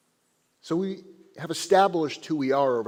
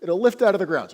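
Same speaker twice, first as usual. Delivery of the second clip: higher, exasperated rabbi laying down a challenge; frustrated chief rabbi; 9 semitones higher, 4 dB louder, faster than usual. Acted. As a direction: play the fed-up chief rabbi daring them. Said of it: "He gets very frustrated. He goes".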